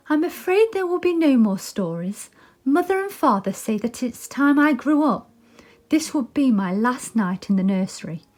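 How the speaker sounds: lightly voiced sad girl; a hint of a wistful young girl; Wendy.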